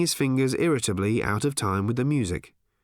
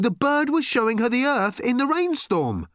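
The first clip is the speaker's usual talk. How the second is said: much higher and louder, thrilled; excited shout; 4 dB louder than usual. Acted. Arthur thrilled that Earth still exists, excited shout. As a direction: burst out with the news, loud and high. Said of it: "said Arthur excitedly".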